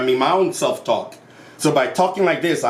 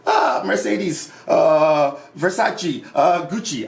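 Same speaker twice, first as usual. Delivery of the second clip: mock ecstatic cries; slower than usual. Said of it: "she's shouting".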